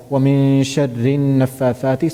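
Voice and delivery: "النَّفَّاثَاتِ" joined to "شَرِّ" with no glottal stop; fast recitation sliding into "النَّفَّاثَاتِ"; hamza dropped. Shown as a demonstration. Teacher recites the ayah for the student, hamza left silent. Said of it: "so I didn't pronounce it".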